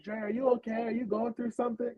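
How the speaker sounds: a hint of a worried friend, hushed; mock concerned. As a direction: ask softly as if worried. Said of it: "she'd be like".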